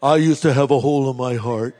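a hint of a talking dog's testimony. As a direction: give the dog a slightly low, simple voice. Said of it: "how I imagine a dog's voice would be".

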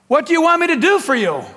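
lightly acted call across to someone. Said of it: "he called out to them".

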